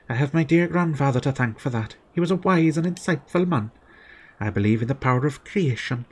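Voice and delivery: lightly voiced gentle holy sister; reading nun dialogue. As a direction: read her lines kindly as the sister. Reads character Esther's dialogue.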